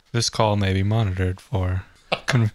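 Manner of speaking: flat automated phone message; robot voice. Retold or imitated. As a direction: read it like a recorded phone line. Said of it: "what if it was our robot voice".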